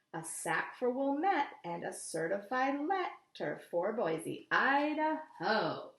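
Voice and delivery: lively rhythmic poem reading; reading to children. A narrator's reading. Teacher reading the poem to her class, lively and rhythmic. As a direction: read the rhyme with a bouncing beat.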